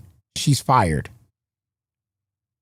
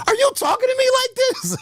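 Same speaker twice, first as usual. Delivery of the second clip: furious dad yell. Retold or imitated. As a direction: yell it like an outraged father. Dad voice yelling at son.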